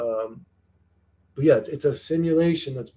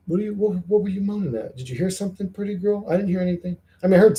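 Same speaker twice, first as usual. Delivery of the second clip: higher, sing-song voice to a dog; pet talk; 5 semitones higher, much faster than usual. Real, not acted. Asking the dog what she heard, cooing. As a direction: coo at the dog.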